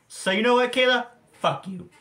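a peak of real anger aimed at Kayla; angry call-out. Real, not acted. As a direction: spit it straight at her. Calling out Kayla in rant.

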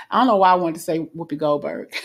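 words bubbling with an amused laugh; laughing while talking. Real, not acted. Reader laughing at the name she heard, amused. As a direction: chuckle through it, amused at her own odd thought.

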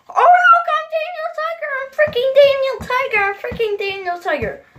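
high wailing rant, falling as it repeats; exasperated outburst. Acted. Boy fed up with Daniel Tiger comparisons, exasperated. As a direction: start in a high cry and wind down.

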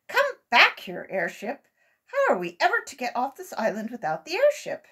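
calling out. A narrator's reading. Uncle Wiggily calling to his runaway airship, pleading. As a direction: yell after something flying away.

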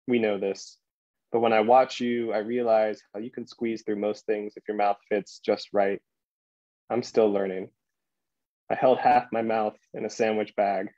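measured poem recital with deliberate pauses; poetry reading. Acted. Poet reading "To the Octopus" to a library audience, measured recital. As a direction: read it line by line, letting each image land.

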